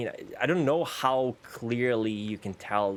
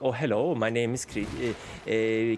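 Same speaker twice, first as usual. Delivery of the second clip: mock Swedish accent. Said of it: "because it sounds like".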